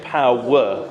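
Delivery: "power" in two syllables, the -er heavier; stress on second syllable. Shown as a demonstration. Choir leader repeating the unwanted version, second syllable stressed. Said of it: "don't want it to ever be".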